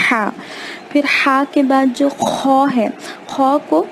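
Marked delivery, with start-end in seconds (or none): 0.1-0.3 ہا breathed hard from the middle of the throat; ہا as Arabic haa from the throat; throaty h. Shown as a demonstration. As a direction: push ہا from mid-throat, a strong breathy h. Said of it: "حلق کو دبائیں".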